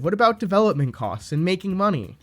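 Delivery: lightly mimicked whiny kid objection; whiny middle schooler. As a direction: put on a mildly whiny schoolkid voice. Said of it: "with your whiny middle school voice".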